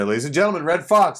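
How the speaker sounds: booming showbiz announcer intro; mock announcer. Host introducing Redd Foxx, announcer voice.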